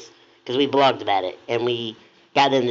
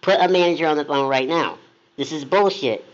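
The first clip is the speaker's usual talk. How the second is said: retold yelling; 3 semitones higher than usual. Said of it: "in the lobby yelling".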